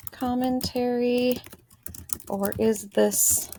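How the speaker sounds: slow, drawn-out words with long gaps; dictating while writing. Real, not acted. Teacher writing a question for herself, slow dictation. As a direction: stretch each word as you write it down.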